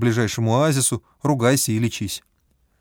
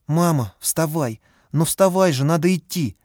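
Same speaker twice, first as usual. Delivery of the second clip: put-on pleading child; 4 semitones higher than usual. A narrator's reading. Boy begs his mother.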